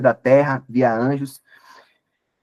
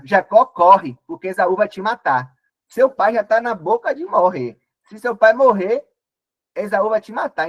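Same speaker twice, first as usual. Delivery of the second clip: urgent worried mother; 3 semitones higher than usual. Acted. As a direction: hurry him away like a frightened mother. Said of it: "E a mãe chega".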